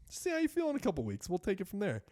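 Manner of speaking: high, fast breezy doctor voice; mock doctor. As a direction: brush the patient off in a silly high voice. Mocking dismissive doctor.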